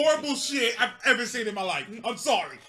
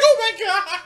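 retold horror; 7 semitones higher, 7 dB louder than usual. Retold horrified reaction to birth.

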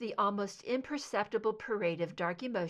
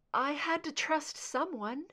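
surprised; 7 semitones higher than usual. Acted. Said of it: "Scully sounded surprised on the tape".

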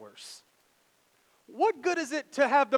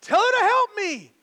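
much higher and louder, slow complaining plea; whiny Martha; 8 semitones higher, 11 dB louder, slower than usual. Retold or imitated. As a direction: play the fed-up sister. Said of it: "she comes to him and she says".

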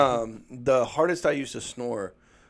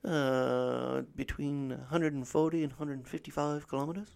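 lightly voiced train buff, slow and eager; excited trainspotter voice; 4 semitones higher than usual. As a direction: play the eager train fan calling speed. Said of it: "he was like".

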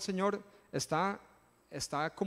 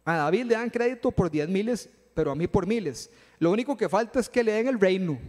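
mock indignation; 2 semitones higher, 4 dB louder than usual. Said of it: "También se enojó y dijo".

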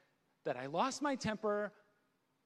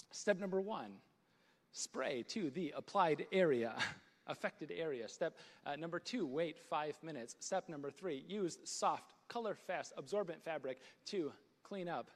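low, subdued manual-reading voice; reading instructions aloud; 4 semitones lower, 4 dB quieter than usual. Acted. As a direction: recite the cleaning steps evenly and quietly. Reads cleaner instructions aloud.

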